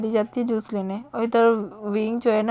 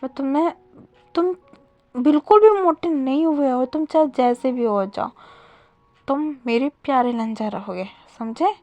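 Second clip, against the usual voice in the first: softer, tender reassurance; lovingly; 4 dB quieter than usual. Acted. Wing gently reassures crying Wang ji, soft and loving. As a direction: soothe him gently, like calming a child. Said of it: "प्यार से बोल रहा था".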